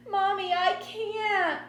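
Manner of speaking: high, slow, loud wail of protest; tearful child. A narrator's reading. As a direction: plead through rising tears. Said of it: "The tears really started coming".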